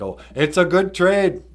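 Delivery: mock delight. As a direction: pipe up, hammed-up and pleased. Acted delighted reply in story.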